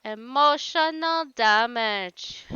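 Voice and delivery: slow, drawn-out meme shout of emotional damage; lightly mock the meme, stretching it slowly. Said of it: "did you get emotional damage".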